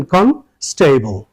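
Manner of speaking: কনস্টেবল said slowly, কন-স্টে-বল drawn out; slow drawn-out constable. Shown as a demonstration. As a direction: stretch out কনস্টেবল syllable by syllable. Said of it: "স্টেবল না স্টেবল". (ধীরে টেনে কনস্টেবল)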